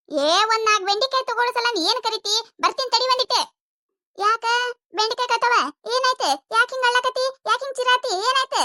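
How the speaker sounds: lightly voiced old mother-in-law asking what happened. Mother-in-law answers the call. (ಸ್ವಲ್ಪ ಎತ್ತರದ ದನಿಯ ಅತ್ತೆ)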